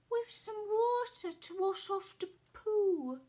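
high, chirpy helpful suggestion; cheeky ferret. Acted. Ferret suggesting a wash, chirpy. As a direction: pipe up brightly.

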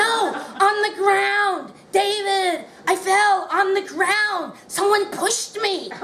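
insisting she really fell; protesting. Retold or imitated. Actress insisting to director she was pushed, high and insistent.

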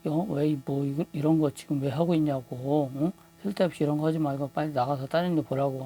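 mildly heated, brisk telling-off; retold angry scolding. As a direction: retell an annoyed doctor scolding, speeding up. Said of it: "의사가 좀 화를 내더라고요".

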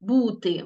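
бути stressed on first syllable БУ; stress on root. Shown as a demonstration. Teacher contrasts infinitive with past forms, stressing БУ in бути. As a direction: hit БУ in бути. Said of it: "наголос падає на закінчення".

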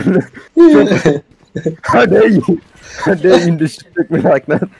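shaking with anger. Pretend. Mock outrage at teammate's disrespect.

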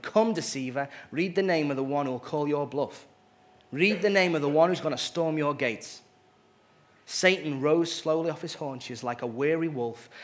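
expressive read-aloud storytelling; story reading. Acted. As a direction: read the tale to the congregation, voicing its figures. Reads a story aloud in sermon.

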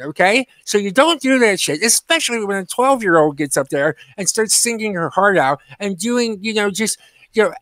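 scornful telling-off straight to camera; direct rant. Real, not acted. Vlogger tells off the karaoke woman in a scornful rant. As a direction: scold her like she's right there.

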